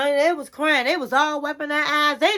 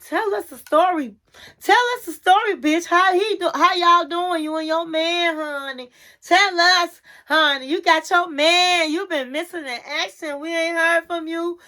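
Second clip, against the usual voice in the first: nosy friends; 3 semitones higher than usual. Retold or imitated. Friends voiced pressing for gossip.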